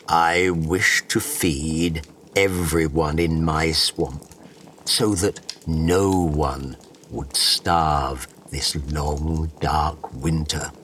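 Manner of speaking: low, slow, earnest hunter; grave humble hunter. Acted. Hunter answers the bug.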